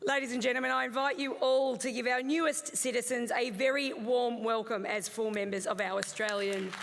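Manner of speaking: measured, even ceremonial reading; formal speech. Real, not acted. Officiant welcoming new Australian citizens, formal speech. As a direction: read it out as an official address.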